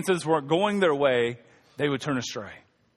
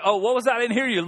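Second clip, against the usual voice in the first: sarcastic feigned deafness; 3 semitones higher, faster than usual. Pretend. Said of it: "You'd be like".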